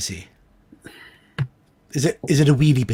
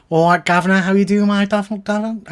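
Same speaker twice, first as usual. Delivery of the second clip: mock Cockney accent; 2 semitones higher than usual. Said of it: "it's a bit Dick Van Dyke".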